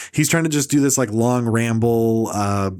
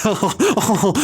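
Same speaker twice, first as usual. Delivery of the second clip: audience member; 7 semitones higher than usual. Retold or imitated. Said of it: "everyone's like".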